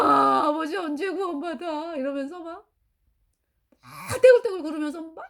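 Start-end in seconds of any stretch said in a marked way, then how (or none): 0.0-2.0 wailing half-sung through tears; sobbing, stretched plea to the heavens; tearful sing-song wail; crying out. Retold or imitated. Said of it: "서럽게 울었어요".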